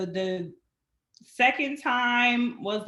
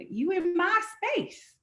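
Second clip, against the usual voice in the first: calm boundary; 7 semitones higher, slower than usual. Retold or imitated. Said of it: "I'm like".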